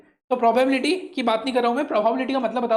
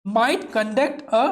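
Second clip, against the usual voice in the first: very slow model reading; much slower than usual. Shown as a demonstration. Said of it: "teacher models English slowly".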